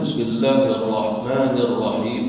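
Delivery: Bismillahirrahmanirrahim with each doubled consonant held; careful model reading of Bismillahirrahmanirrahim, doubled letters clear; shaddah recitation. Shown as a demonstration. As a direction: press the ll and rr in "Bismillahirrahmanirrahim". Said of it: "ulama mengajar kita di dalam".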